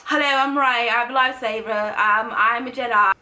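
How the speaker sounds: light imitation of a quirky English accent; quick sketch of an English-accented heroine. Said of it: "she has a quirky English accent".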